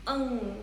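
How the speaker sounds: "Ng" as an isolated, held nasal consonant; sustained "Ng" as at the end of singing; ng sound demo. Shown as a demonstration. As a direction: hum the ng sound alone on "Ng". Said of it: "How to pronounce it?".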